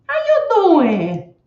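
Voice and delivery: put-on loud, high, drawn-out Stallone-style accent; Sylvester Stallone. Greeting a viewer, then breaking into a Stallone accent. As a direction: stretch out a loud imitation of his accent. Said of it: "I break out in his accent".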